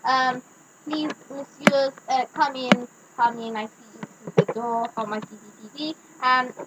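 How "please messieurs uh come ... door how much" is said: put-on softer, lower French-accented host; lightly put-on French accent. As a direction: usher guests in with a French accent. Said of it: "I'm still putting on the French accent".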